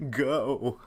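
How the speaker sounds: mock order, short and loud; retold curt order. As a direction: send them off with one loud word. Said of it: "like that".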